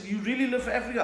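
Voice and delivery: high-pitched query to his son; acted dad's question. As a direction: imitate a doubting father asking. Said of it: "I said".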